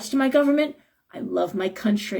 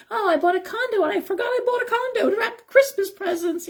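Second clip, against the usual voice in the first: high, giggly oblivious rich act; mock airhead socialite; 10 semitones higher than usual. Reader mocking out-of-touch celebrities, high and ditzy. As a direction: play a ditzy rich celebrity, much higher voice.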